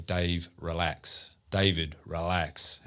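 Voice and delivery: slow, soothing plea to relax; coaxing her son to let go, slowly; mum's calm voice. Retold or imitated. Late mum soothing son during ceremony, slow and calm. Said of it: "my mum's voice is going".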